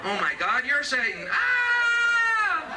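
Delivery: rising into a high shrieked "Ah"; mock panic. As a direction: act terrified of the stereo. Panicked listener imitated.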